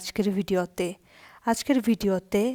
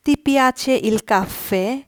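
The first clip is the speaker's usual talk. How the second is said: very slow, higher and louder, Ti piace il caffè? with a rising question tune; slow teaching read; 3 semitones higher, 5 dB louder, much slower than usual. Shown as a demonstration. Italian teacher reading the question slowly to Bengali students. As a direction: spell out Ti piace il caffè? word by word for learners. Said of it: "এখন আমরা প্রশ্ন উত্তরগুলো দেখব".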